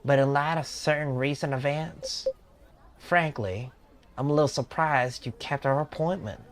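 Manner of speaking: mildly surprised Southern speaker; Southern accent. Acted. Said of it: "on, on Southern mode".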